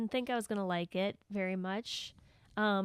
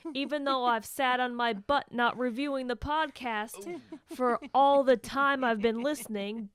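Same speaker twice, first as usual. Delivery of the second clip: put-on New Jersey accent; 2 semitones higher than usual. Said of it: "in the style of a character from the movie".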